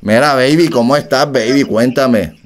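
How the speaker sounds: a hint of the pop star, barely changed; impression of a singer. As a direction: keep pretending to be the star. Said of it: "Esa no es la voz del cantante".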